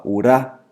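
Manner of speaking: rá dito com força; sílaba tônica. Shown as a demonstration. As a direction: destaque o rá como tônica. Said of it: "é tônico". (ênfase no rá)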